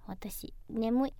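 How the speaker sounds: whispered, slow and sleepy. Real, not acted. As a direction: breathe it out half asleep.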